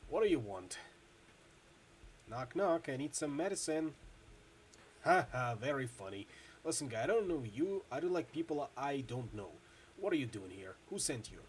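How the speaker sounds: wary intercom guard, gruff and curt; a suspicious doorman questioning a stranger through the intercom. Acted. Bouncer on an intercom grilling a stranger, wary.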